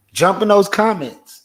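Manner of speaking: rally the viewers to comment; calling out to viewers. Real, not acted.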